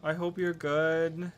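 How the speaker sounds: tender and apologetic, stretched out; affectionate apology. Real, not acted. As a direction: slowly coo an apology to a teased friend. Apologising sweetly to teased chatter.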